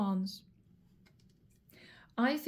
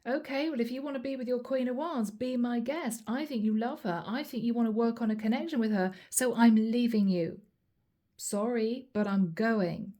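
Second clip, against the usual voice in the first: lightly acted huffy walkout; understated mock strop; mild temper tantrum. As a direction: act out a touch of a tantrum, telling them you're leaving. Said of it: "sounds a little bit like a temper tantrum".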